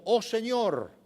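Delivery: earnest public prayer, read aloud. A narrator's reading. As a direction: appeal to God in measured phrases. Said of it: "caminó hacia el altar y oró".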